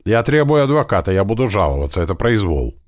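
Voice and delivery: high, loud squeal settling into indignant protest; испуганный протест. A narrator's reading. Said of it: "заверещал этот молодой". (возмущённо верещать)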